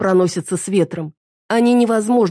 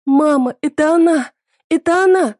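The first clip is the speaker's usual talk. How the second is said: put-on very high, loud child's shout; frantic calling; 12 semitones higher, 4 dB louder than usual. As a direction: yell for mum to see. Daughter calls to mother, pointing.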